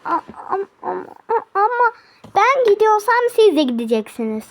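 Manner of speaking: high, whimpering mock cry; whiny. The little sister whining at her sisters in a hammed-up cry. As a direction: whine it like a child about to cry. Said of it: "Elli kez sordun".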